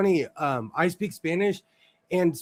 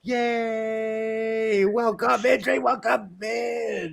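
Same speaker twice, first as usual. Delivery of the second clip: calling out; 6 semitones higher, much slower than usual. Real, not acted. Greeting a newcomer, calling out.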